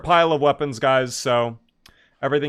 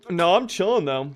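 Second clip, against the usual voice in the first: "chilling" lifted high and bright, fall at end; upbeat reassurance; 5 semitones higher than usual. Real, not acted. Streamer tells chat he's fine, high and upbeat.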